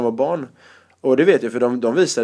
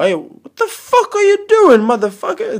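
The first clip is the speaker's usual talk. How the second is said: mock yell; 5 dB louder than usual. Retelling host yelling at him.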